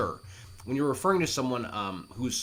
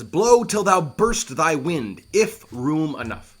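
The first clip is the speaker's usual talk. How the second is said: defiant address; 4 semitones higher, 8 dB louder, slower than usual. Acted. Addresses the storm.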